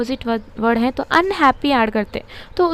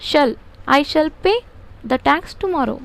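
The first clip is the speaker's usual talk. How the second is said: slow dictation; much slower than usual. Shown as a demonstration. Dictating answer slowly.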